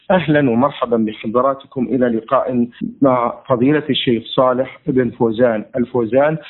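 formal radio host welcome; measured broadcast announcer read; formal standard arabic. Acted. (فصحى إذاعية رسمية)

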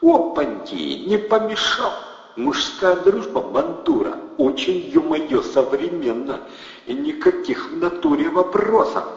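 high, loud swaggering gangster voice; brash loud thug. A narrator's reading. Thug barges into friend's flat, loud and swaggering. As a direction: play the rowdy bandit barging in.

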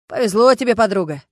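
loud, jolly teasing; cheerful. Acted. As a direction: rib her cheerfully. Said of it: "весело сказал Стас". (весело и громко, подтрунивая)

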